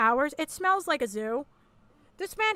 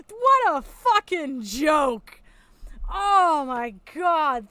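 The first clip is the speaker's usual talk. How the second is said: slow scorn; 4 dB louder, much slower than usual. Real, not acted. Contemptuous disbelief.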